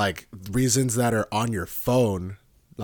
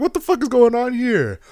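mock pissed; 13 semitones higher, 6 dB louder than usual. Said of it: "genuinely pissed".

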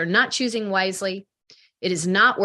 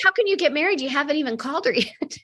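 retold incredulity; 7 semitones higher than usual. Retelling her disbelief to client.

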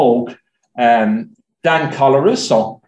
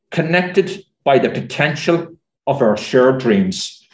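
poem reading; 3 semitones higher than usual. Acted. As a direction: read it like a closing verse. Reads her own poem aloud.

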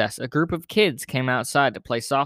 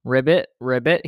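frog ribbit; 3 dB louder than usual. Acted. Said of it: "he said".

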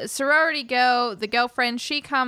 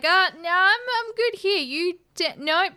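higher, stammering nervous no's; flustered refusal; 5 semitones higher than usual. Retold or imitated. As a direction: backpedal in a panic. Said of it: "he's just like".

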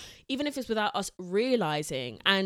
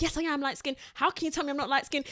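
higher-pitched imitation of a defensive girl; mimicked protest, pitched up; mock indignant; 6 semitones higher than usual. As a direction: insist it in a raised mocking pitch. Mimicking a defensive girl's replies.

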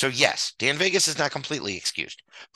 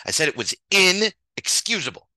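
louder and higher, insisting; emphatic repeat; 6 semitones higher, 5 dB louder than usual. Real, not acted. To the doubting viewers, a louder insistent repeat. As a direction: say it again like they weren't listening. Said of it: "Perhaps you didn't hear me".

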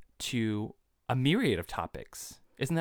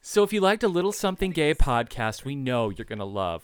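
upbeat host pitch; 5 dB louder than usual. Real, not acted. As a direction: sell it to the listeners. Retake with more energy.

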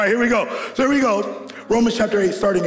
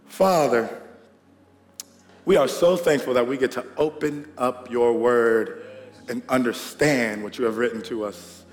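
prayer; 3 semitones higher than usual. Real, not acted. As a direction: pray it gently over the fathers. Pastor leads prayer.

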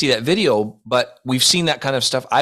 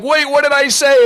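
mock confusion; 14 semitones higher, 6 dB louder than usual. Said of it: "And then he's like".

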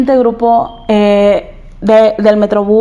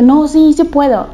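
self-encouragement; 3 semitones higher than usual. Retold or imitated. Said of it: "me bajé y dije".

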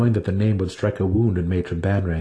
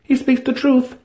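assuring; 4 dB louder than usual. A narrator's reading. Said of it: "matron assured her".

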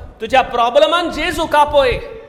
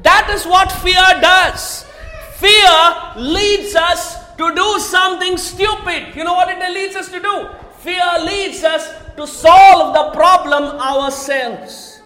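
full-force preaching; 3 semitones higher than usual. Acted. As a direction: preach it like a warning to the congregation.

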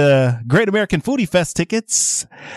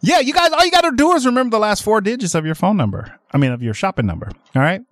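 breathless, rushing fast; out of breath; 3 semitones higher, faster than usual. Real, not acted. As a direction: talk fast while short of air. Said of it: "I'm out of breath".

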